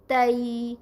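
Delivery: تئی glided softly from a to i; تئی said as a smooth soft ai glide; soft gliding diphthong. Shown as a demonstration. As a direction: slide the vowel gently through تئی. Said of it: "اسے نرمی سے پڑھنا ہے".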